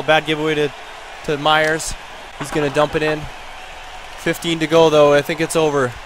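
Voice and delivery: lively hockey commentary, calling each pass; live play-by-play. Pretend. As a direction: call the final seconds as they unfold. Live play-by-play of final seconds.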